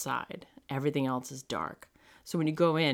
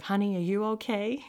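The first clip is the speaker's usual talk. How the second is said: high, sweetly concerned check-in; put-on nice, lifted pitch; acting all nice; 7 semitones higher, 3 dB louder than usual. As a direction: imitate a caring guide checking on someone. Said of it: "Trying to be all nice".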